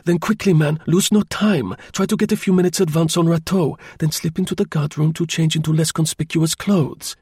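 high, urgent voice of command; curt, authoritative. A narrator's reading. Chauvelin hurries Tournefort off with orders, curt and authoritative. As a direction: send him off with firm orders, pitched well up. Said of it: "he gave a curt command".

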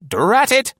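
put-on high, loud old woman's grumble; sharp, high elderly outburst; grumbling old lady. A narrator's reading. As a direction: curse the stone under her heel. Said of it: "she grumbled".

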